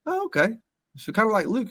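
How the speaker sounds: high, clueless comparison; quoting uncle Mark. Retold or imitated. Uncle comparing Jason to Luke, high and clueless. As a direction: chirp it out naively. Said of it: "And he goes".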